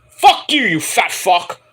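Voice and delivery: angry outburst. Real, not acted. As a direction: spit it at him in disgust. Ranting at Matt Bloom.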